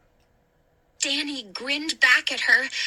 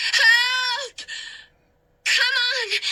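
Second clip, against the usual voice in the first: urgent shout; 10 semitones higher, much slower than usual. A narrator's reading. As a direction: yell for him to move. Urging him out of fire.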